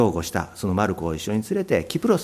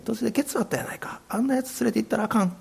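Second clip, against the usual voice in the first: high, fast, whispered Kansai-ben; Kansai dialect; 12 semitones higher, 6 dB quieter, faster than usual. Retold or imitated. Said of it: "関西弁で言ったかどうか".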